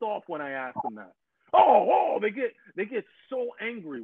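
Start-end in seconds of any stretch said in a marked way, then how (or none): 1.5-4.0 sudden high burst of excitement; high excited rush; excited outburst. Real, not acted. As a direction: jump up in pitch, amazed at it. Describing people getting angry.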